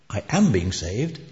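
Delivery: "am" picked out in measured contrast; stress on AM. Retold or imitated. Scholar explaining salvation's tenses to a lass, stressing "am". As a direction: lean on "am" to mark the present tense.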